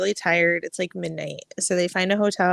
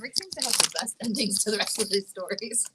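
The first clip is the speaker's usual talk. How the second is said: teasing whisper; 6 dB quieter than usual. Real, not acted. Teasing aside about Rick.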